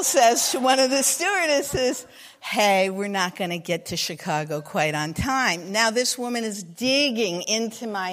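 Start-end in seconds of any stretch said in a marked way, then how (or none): 2.4-5.7 casual, lower-pitched pilot delivery; offhand, mildly deadpan announcement; nonchalant pilot. Retold or imitated. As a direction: toss it off as if nothing's wrong. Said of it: "very nonchalantly".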